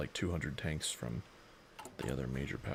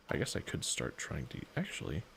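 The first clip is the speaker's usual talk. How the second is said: bored, tired voice; 2 semitones higher than usual. Real, not acted. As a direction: drag through the words, worn out. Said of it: "you sound like a bored character from Regular Show".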